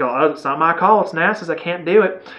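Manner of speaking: a light hint of a Southern accent; stereotypical Southern accent. Reviewer imitating Kirsten Dunst's character in a faint Southern accent. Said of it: "stereotypical Southern there".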